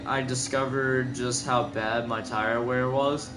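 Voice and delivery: words stretched by a yawn. Real, not acted. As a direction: talk through a yawn. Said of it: "sorry for yawning so much".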